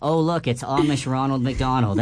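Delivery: squeaky helium-balloon voice. Real, not acted. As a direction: talk after inhaling helium. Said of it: "It keeps disappearing".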